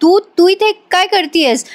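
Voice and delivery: a hint of a scared, guilty stammer; startled fright. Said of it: "Gautami घाबरते आणि म्हणते".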